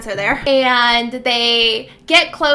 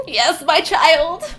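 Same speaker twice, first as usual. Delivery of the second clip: proud; 3 semitones higher, slower than usual. Retold or imitated. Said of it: "looks at her so proud".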